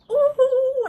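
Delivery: high, loud, sustained "ooh"; exultant whoop. Real, not acted. Healer cheering on her own affirmation, exultant high whoop. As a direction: let out a soaring, celebratory whoop.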